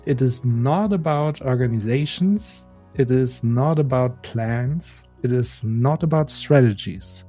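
English with a German accent, read out deliberately; German accent on careful English. Real, not acted. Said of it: "deswegen entschuldigt meinen Akzent".

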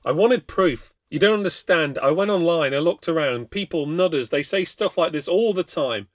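a terrified man begging to be believed; desperate pleading. Acted. Desperate Craig pleads his case.

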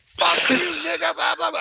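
high, loud imitation of a screaming woman; shrieked mock rant. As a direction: screech it like an angry woman's tirade, hammed-up. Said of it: "she's screaming".

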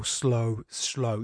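slow, spaced repetition. Shown as a demonstration. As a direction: let each word land separately. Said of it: "You have to slow down when you're reading it".

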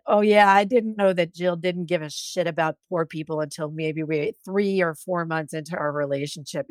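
a weak Minnesota accent imitation; lightly imitating a Minnesota accent. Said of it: "in his Minnesota accent".

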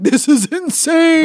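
high, slow, stretched disbelief; a big incredulous "this is insane"; mock outrage. Scoffing at a plan to take names, in mock outrage.

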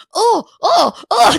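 loud, high disgusted groan. Retold or imitated. Husband reacting to the toot, loud disgusted oh. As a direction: recoil in disgust. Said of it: "just, like, disgusted".

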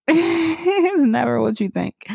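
"It's never what you think" laughed out high and slow; laughing high repeat. Real, not acted. Mom laughing at her own parenting surprises, high and slow.

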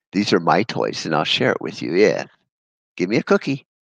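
mock whiny brat voice, rising high on the cookie line; a hammed-up spoiled child demanding a cookie; spoiled little brat. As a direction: play the petulant kid bargaining with toys. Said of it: "like a spoiled little brat".

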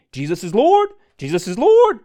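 high, loud mock proclamation; imitated manic shouting. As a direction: shout it out like a frenzied zealot. Imitates agitated boy's repeated outburst.

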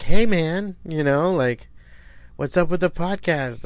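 lightly voiced cheery fan; friendly fan greeting. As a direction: call out to him like an eager fan. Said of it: "they were like".

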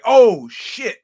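loud, high shocked exclamation. Retold or imitated. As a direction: caught completely off guard. His shocked reaction retold.

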